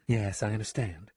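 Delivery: understated, sober agreement. Acted. Woman accepts that she must hide, mildly serious. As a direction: turn a little serious. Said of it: "in a more serious tone".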